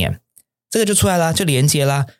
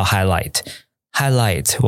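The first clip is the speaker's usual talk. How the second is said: slow model reading; 2 semitones lower, much slower than usual. Shown as a demonstration. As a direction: model "highlight，highlight" slowly for students. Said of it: "学了一个字叫highlight". (慢速示范念"highlight，highlight")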